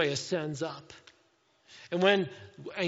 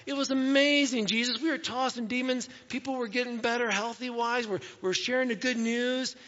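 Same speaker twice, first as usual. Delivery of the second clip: higher, eager report of success; excited disciples; 5 semitones higher than usual. Retold or imitated. Disciples report back to Jesus, fired up and excited. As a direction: burst in bragging to the teacher. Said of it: "they were all excited and fired up".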